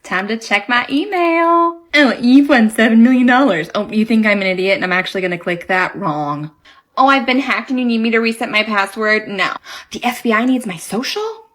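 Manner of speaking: loud, exaggerated comic delivery; loud mock drama. Woman reading spam emails aloud, overdone. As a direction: ham up every spam email.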